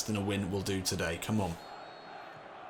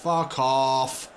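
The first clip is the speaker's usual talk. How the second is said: louder angry yell; angry shout; 2 semitones higher, 6 dB louder than usual. Real, not acted. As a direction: shout it this time. Opponent scores, repeated curse.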